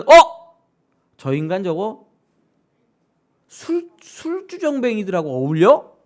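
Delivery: high loud shocked "어?", then disgusted sneer; scandalized gasp. Retold or imitated. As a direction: act out the leaders' outrage. Religious leaders scandalized. (높고 크게 놀라며 못마땅해하는 말투)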